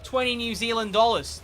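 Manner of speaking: badly faked New Zealand accent; botched New Zealand accent. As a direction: attempt New Zealand, land on Australian. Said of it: "That's, that's an Australian accent".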